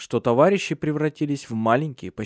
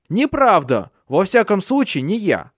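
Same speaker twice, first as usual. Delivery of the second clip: high, raised denial; mild angry denial; 8 semitones higher, 4 dB louder than usual. Acted. Handsome one denies guilt to Fatso, raised angry. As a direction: deny it hotly.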